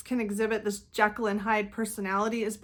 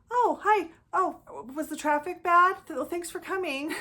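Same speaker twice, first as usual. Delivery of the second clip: fake sweet cheer; 8 semitones higher than usual. Narcissist greeting the late partner at dinner, fake sweet cheer. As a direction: gush over-sweetly as if nothing's wrong. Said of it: "they're just like".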